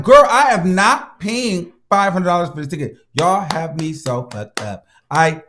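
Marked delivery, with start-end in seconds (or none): 0.0-3.0 indignant retort. Retold or imitated. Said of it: "I'm like".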